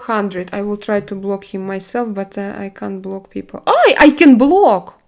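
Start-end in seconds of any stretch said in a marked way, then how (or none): 3.7-5.0 louder, higher, slow triumphant cry; excited discovery. Real, not acted. Streamer discovering she can block a troll, in an excited cry. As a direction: announce it like a small victory.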